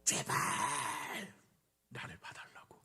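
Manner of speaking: strained, voiceless cry that fades away; desperate, pleading cry. Acted. Blind man begs the Lord to see him, strained desperate cry. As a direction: strain out a desperate plea, then let it die. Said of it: "그 간절한 소리로".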